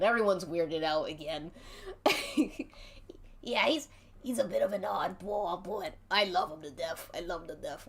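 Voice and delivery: lightly voiced creepy wrestling boss, starting in a whisper; hushed and sly at first, then a proud, showy boss; a light touch of a menacing promoter; Mister Giggles voice. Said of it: "And that's where Mister Giggles ... He's like".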